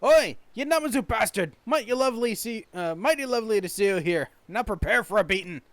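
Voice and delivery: loud, threatening Scottish shipwright; angry Scottish accent. Acted. Shipwright threatens a Namazu with a beating, angry Scottish accent. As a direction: go on the attack in a strong Scottish accent. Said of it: "very Scottish accent".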